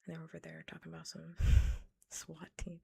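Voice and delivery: bursts out laughing mid-sentence; loud laugh while reading out the absurd idea; cracking up at the swat team idea. Real, not acted.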